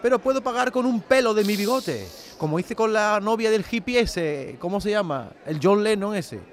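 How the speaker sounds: Dalí excéntrico, algo agudo y teatral; voz de Dalí. Acted. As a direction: engolado y presumido, como Dalí. Dalí character voice, sketch. (Dalí teatral y presumido)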